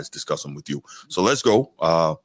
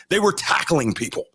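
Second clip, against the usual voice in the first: higher mock quote of Cowherd; 7 semitones higher than usual. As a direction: parrot his line in a lifted mocking voice. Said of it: "That's literally the words that he uses".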